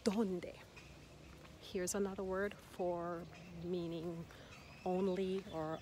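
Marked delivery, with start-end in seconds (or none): 0.0-0.5 donde punched on DON, falling after; donde, strong O, light ending; stress on the O. Shown as a demonstration. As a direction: hit the first syllable of donde. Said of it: "you don't put the emphasis anywhere else".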